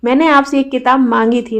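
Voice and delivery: "मांगी" given the weight of the sentence; stress on मांगी. Shown as a demonstration. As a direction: press on "मांगी", I asked and you didn't bring it. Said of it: "मांगी यानी कि वह किताब लगता है आप लाए नहीं". ("मांगी" पर बल)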